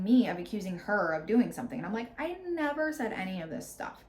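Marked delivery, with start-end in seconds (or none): 2.2-4.0 heated. Retold or imitated. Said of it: "So it's getting kind of heated".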